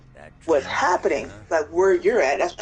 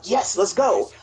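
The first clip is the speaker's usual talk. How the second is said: mildly excited cheer; a quick, eager let's-go; retold excitement; 3 semitones higher, slower than usual. Gamer recalls being told of the sanctuary, mildly excited. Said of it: "That's why I was so excited".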